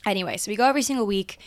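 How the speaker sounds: fast, hyped-up rush; caffeinated. Real, not acted. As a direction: rattle it off, over-caffeinated. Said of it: "Can you guys tell I'm, like, caffeinated".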